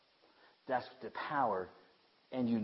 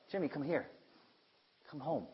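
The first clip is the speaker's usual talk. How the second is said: proud father calling; 3 semitones higher, 4 dB quieter than usual. Retold or imitated. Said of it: "a proud father calling his children".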